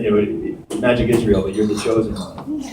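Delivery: low, hushed secret; quiet, low aside with pretend gravity; mock solemn confiding. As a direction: confide it softly, as if to one chosen child. Retold secret told to one kid aside.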